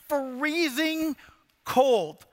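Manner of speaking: FREEZING drawn out slowly, then COLD punched after a pause; "freezing ... cold" in two weighty beats; emphatic freezing. Retold or imitated. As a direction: stretch out "freezing", land hard on "cold". Dramatizes how cold he was.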